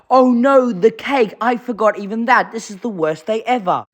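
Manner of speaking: high, wailing put-on dismay; mock despair. Voicing Thomas upset about the cake, mock despair.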